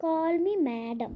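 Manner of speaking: very slow, haughty demand; haughty command. Acted. Bully orders the crying girl to call her madam, haughty and slow. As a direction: draw it out like a queen.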